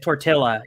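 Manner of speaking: "tortilla" with an English L sound; "tortilla" with the double L pronounced; anglicized tortilla. Shown as a demonstration. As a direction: say "tortilla" as tor-TILL-a, gringo style. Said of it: "say them without the accent".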